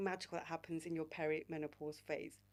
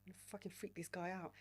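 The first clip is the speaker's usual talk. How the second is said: inner voice scolding; 7 dB quieter, faster than usual. Retold or imitated. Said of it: "my inner voice is like".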